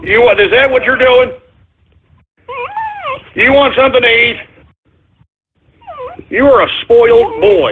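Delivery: high doggy coo. Real, not acted. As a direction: tease the dog fondly. Cooing to hungry dog.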